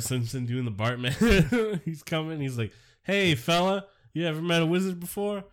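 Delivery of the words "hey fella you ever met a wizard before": put-on London wizard accent. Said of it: "he says it in a London accent".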